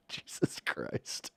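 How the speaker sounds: breathless whispered gasp; hushed, slow whisper so nobody hears. Real, not acted. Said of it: "catch me whisper screams".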